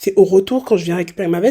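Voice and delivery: normal talking voice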